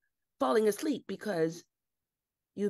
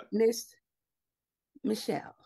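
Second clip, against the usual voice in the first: whispered name; a hushed whisper of Michelle; 3 semitones higher than usual. Acted. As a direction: breathe her name, voiceless. Hushed address.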